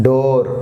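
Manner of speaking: డోర్ with a long o; long vowel. Shown as a demonstration. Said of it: "long pronunciation". (డోర్ లో పొడవైన ఓ శబ్దం)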